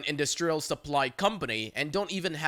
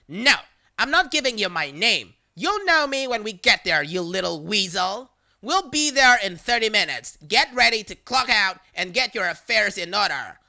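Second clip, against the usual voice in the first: louder, menacing taunt; threatening caller; 3 semitones higher, 4 dB louder than usual. Retold or imitated. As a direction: threaten like a bully.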